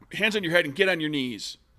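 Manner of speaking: high, barking delivery. Voicing a foe who screams at the players to surrender, screaming. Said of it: "He's screaming at you".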